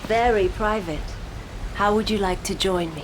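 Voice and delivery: flirty invitation to the beach. Acted. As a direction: coax the commander to join her.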